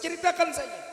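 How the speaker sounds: high, loud coaxing voice; Musa reassuring. Acted. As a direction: coax her gently to speak.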